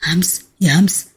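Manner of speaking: shocked whisper. A narrator's reading. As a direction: whisper her name, stunned and slow. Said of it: "اتصدم وهو بيهمس".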